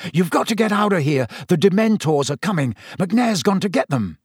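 Harry urging Sirius onto the hippogriff, urgent. Acted. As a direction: press him to hurry. Harry's voiced lines.

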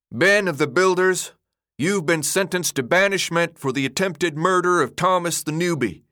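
loud, solemn pronouncement; loud, ceremonious. A narrator's reading. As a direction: proclaim a banishment to the whole crowd. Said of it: "Albie spoke in a loud, almost ceremonious voice".

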